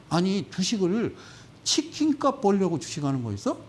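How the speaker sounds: normal talking voice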